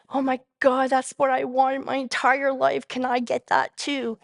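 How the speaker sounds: retold burst of eager wonder; wishful amazement. Newcomer longing for what the happy members have, wishful amazement.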